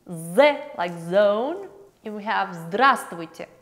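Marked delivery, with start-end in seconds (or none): 0.1-1.7 slow З like zone, buzzing the z; sounding out З. Shown as a demonstration. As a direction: draw the z out slowly.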